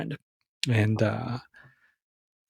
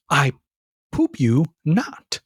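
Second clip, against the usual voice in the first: slow, mock-serious drawl; goofy slow drawl; much slower than usual. Real, not acted. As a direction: stretch it out like a bad joke. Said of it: "Why do I talk like that?".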